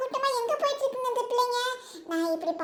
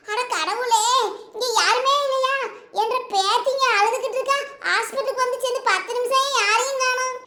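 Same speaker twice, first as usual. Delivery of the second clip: raised, complaining call for attention; agitated shouting. Acted. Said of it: "don't shout". (பதற்றத்துடன் கத்திப் புகார்)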